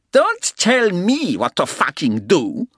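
put-on loud, high, slow German-accented shout; furious German. A narrator's reading. German guest holding a pistol, furious German-accented shout.

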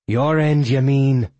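furious villain throwing the threat back; roared retort. A narrator's reading. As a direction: roar it back at your enemy. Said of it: "Angus roared".

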